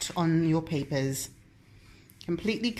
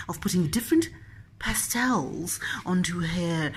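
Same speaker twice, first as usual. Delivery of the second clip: hushed, admiring commentator voice; documentary narration. Acted. Mock art commentary.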